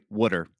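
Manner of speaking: "water" said as WOODER; Philly pronunciation of water. Shown as a demonstration. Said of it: "Philadelphia, you say water".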